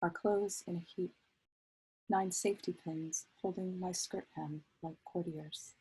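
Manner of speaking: measured poetry recital with pauses between lines; poem reading. Acted. Poet reads own poem to an audience, measured recital. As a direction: read it as verse, phrase by phrase.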